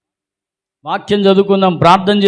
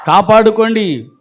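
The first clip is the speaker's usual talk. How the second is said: slow, raised cry of exhortation; emphatic exhortation; 3 semitones higher, 3 dB louder, slower than usual. Real, not acted. Preacher urging the congregation to guard their salvation, slow emphatic call.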